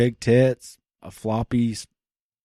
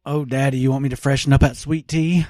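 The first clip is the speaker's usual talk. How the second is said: sultry phone sex voice; 8 semitones higher, 7 dB louder than usual. Pretend. Mock phone sex roleplay.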